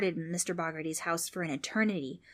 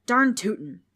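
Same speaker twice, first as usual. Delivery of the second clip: gleeful ghost; 4 semitones higher, 8 dB louder, slower than usual. Acted.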